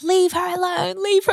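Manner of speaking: high, commanding cry; mock commanding yell. Roommate ordering the spirit away, high mock yell. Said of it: "she starts yelling".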